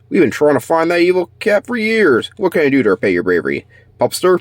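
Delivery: high, cheerful praise; grateful officer. Acted. Police officer thanking the pup, high and cheerful. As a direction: thank the hero warmly.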